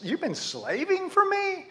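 high-pitched, incredulous echo; incredulous father. Acted. Dad answering his son's accusation, incredulous. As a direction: throw it back in high disbelief. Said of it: "how does that make you feel if you're the dad".

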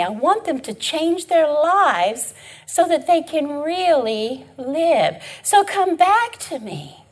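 slow, tender pleading voice of God. Acted. God begging Israel to come back, slow and tender. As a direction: plead slowly as a loving father. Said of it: "God says".

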